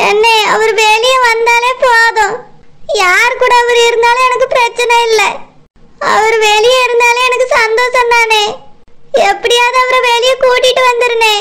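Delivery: mild weepy begging; tearful pleading. Acted. Wife begging brother to free her husband, tearful. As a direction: plead through tears. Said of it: "Meena, அழாதம்மா".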